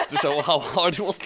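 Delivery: words breaking up with laughter; reading the line through real giggles; laughing while reading. Real, not acted. Reading a silly fanfic aloud to a friend, laughing through it.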